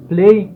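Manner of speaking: بلاي with a heavy, voiced b; heavy b play. Shown as a demonstration. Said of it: "يعني بي تقيلة مش بي خفيفة". (قول بلاي بالبي التقيلة)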